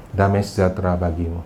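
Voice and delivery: low, soft and calm; gentle blessing. Retold or imitated. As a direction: speak peace like a shepherd. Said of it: "Yesus apa katakan". (lembut dan tenang, lebih rendah)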